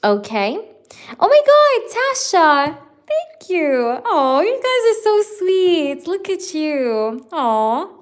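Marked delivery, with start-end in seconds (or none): 1.2-7.9 high, squealing thank-you, much higher; delighted squeal. Real, not acted. Thanking viewer Tasha for a nail compliment, delighted squeal. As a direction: gush with delight at the kind words.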